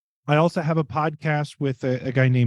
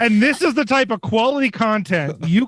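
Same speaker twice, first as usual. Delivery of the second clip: higher, laughing through the joke; 8 semitones higher than usual. Real, not acted. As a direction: chuckle through it. Mocking their own podcast.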